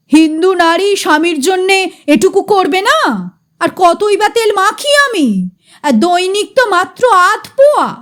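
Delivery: mildly indignant retort; a touch of wounded anger in the defence; angry voice. Acted. Chatujje-da defending his wife's labour, mild indignant anger. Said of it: "ক্রুদ্ধ গলায় বলে".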